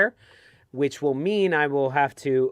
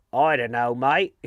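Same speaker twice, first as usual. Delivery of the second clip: lower-pitched imitation with an Australian twang; Australian accent; 3 semitones lower than usual. Imitating Gary for his friends, mock Australian accent. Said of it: "That's very Australian".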